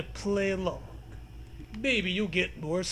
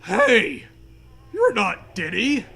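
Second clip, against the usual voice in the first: mild mock shout; 7 dB louder, slower than usual. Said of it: "the ghost horse shouts".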